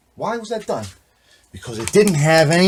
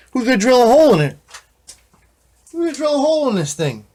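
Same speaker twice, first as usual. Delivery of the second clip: incredulous; 10 semitones higher, faster than usual. Real, not acted. Incredulous rhetorical questions.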